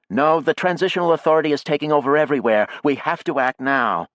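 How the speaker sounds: heated, pressing voice; impatient activist insisting they act; urgent arguing. A narrator's reading. Jackie argues urgently.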